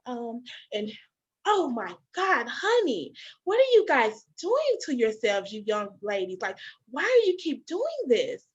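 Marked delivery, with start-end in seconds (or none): 1.5-8.4 condescending lecture. Retold or imitated. Acts out nurse lecturing young mothers.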